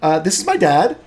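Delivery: put-on high-pitched, lively young woman; eager daughter. Daughter introducing her dad to new friends, eager. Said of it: "calls you guys over and goes".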